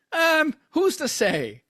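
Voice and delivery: high, slow, mock-innocent; coy evasion. Host coyly dodging his own podcast slip. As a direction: play dumb, drawing it out.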